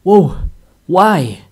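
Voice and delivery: loud, high begging cries; alarmed pleading. Real, not acted. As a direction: yell at the cow to stop. Begging a charging cow.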